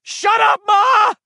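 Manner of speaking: high, loud defiant scream. Acted. Eddie screaming back at his mother, high defiant scream. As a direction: scream it back at her to shut her up. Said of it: "Eddie screamed in a high".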